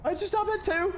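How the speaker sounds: confused squeak. Acted. Confused game voice repeat.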